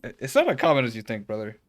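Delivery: even, measured read of formal dialogue; reading game dialogue. Acted. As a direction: read the character's lines evenly, lightly dramatised. Reads game dialogue aloud.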